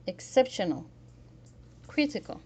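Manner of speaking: "exceptional", "critical", strong on "cep" and "cri"; "exceptional", "critical", spaced out with one accented syllable; third-from-last syllable stress. Shown as a demonstration. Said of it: "Stress the third form last syllable".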